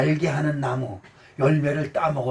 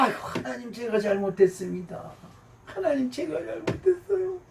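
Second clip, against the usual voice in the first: pleading prayer; 5 semitones higher, 6 dB quieter than usual. Shown as a demonstration. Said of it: "기도할 때마다".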